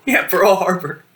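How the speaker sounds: slow laughing repeat. Real, not acted. Friend repeating the joke while laughing, slow laughing repeat.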